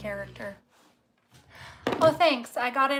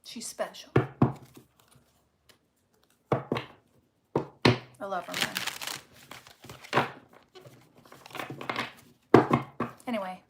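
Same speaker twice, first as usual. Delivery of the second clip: getting emotional; 2 semitones lower than usual. Real, not acted. Reader saying she loves her friend, getting emotional. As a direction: barely get it out, really choked with affection. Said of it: "Sorry, I'm getting emotional".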